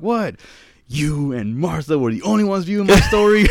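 mock confused. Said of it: "I'm like".

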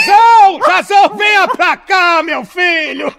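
high, loud, slow call; shouting at the dog. Acted. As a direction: call the dog back firmly.

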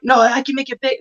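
a hint of a Spanish accent in the retelling. Woman insisting on the belt, retold with a Spanish accent. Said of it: "in her little Spanish accent".

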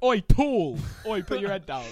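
mock heckling shout. Someone behind a tall man at a gig, mock heckling shout. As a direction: imitate a crowd heckler calling out. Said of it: "just shouting "tall" is ruder".

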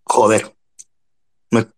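talking with mouth full. Real, not acted. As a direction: speak through a mouthful of food. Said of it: "Te has pillado con la boca llena".

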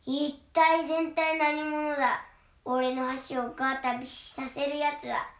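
loud, slow sing-song troll roar. Acted. Troll roars at the biggest goat, loud and drawn out. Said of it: "とトロルが怒鳴りました".

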